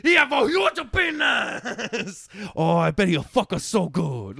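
high, loud, drawn-out mock vaguely Asian accent; hammed-up vaguely Asian accent, shouted slowly. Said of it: "I do this vaguely Asian accent".

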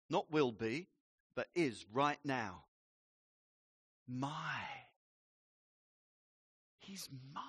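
very slow, soft, long pauses between words; slow word-by-word reading. Shown as a demonstration. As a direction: linger on each word as you read. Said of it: "read it slowly".

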